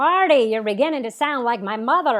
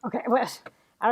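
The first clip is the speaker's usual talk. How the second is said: whisper; 5 dB quieter, faster than usual. Acted. Awkward after kiss.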